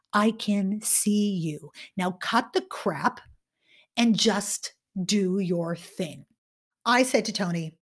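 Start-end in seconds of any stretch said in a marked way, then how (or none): 0.1-6.3 slow and low, steady and direct; slow firm coaching. Retold or imitated. Coach telling Tony to drop the act, slow and low. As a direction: lay it down calmly, no nonsense.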